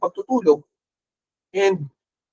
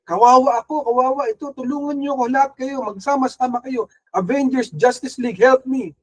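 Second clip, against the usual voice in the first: mock whiny plea, a bit higher; pity-me act; 4 semitones higher than usual. Believer in life's storm begging for rescue, hammed-up pity plea. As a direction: play the self-pitying believer begging everyone for help. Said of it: "paawa effect".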